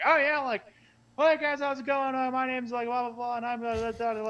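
play-acted silly drunken ramble, pitched high. Retelling a joke bit done with a friend: imitating a rambling drunk voice. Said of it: "rambling, like, drunk kinda voice".

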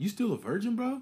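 very high-pitched, mocking, taunting tease. Acting out how people tease a sixteen-year-old, mock-teasing. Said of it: "people will tease you".

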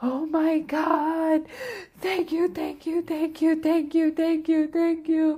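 mock very high, loud, words pushed through laughter. Retelling a guy who started laughing while lying down, imitating him laughing while talking. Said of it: "he's laughing and he's like".

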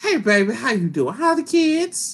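put-on voice of an elderly little old lady. Recalling an old lady at the museum greeting the speaker, imitating a little old lady. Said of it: "Little old lady is asking me".

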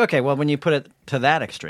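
ordinary talk, nothing marked

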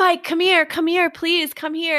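desperate, high pleading, repeated over and over. Retelling a woman begging a man to come in: imitating pleading. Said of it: "She's pleading for him to come in".

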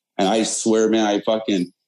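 usual speaking voice

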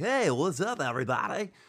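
put-on radio DJ voice. Joking that the talk can't stay upbeat: put-on radio voice. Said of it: "That's my radio voice".

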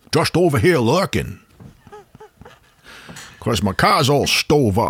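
voice like loose dentures about to pop out. Teasing another speaker about his accent, then doing the false-teeth accent. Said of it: "your main accent sounds like false teeth are just about ready to pop out".

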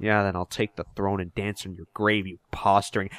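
low, quiet muttering. Retelling a scene with King Max, voicing St. Croix: muttering under his breath. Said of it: "mutters under his breath".

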